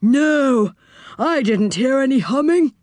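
high, bemused denial; odd high-pitched character; quirky character voice. Acted. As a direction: deny it in a comical high voice. Saucepan man answers, mishearing.

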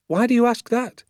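high, surprised query; puzzled question. A narrator's reading. Father questioning his son about roasting, surprised. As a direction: ask it high, taken aback.

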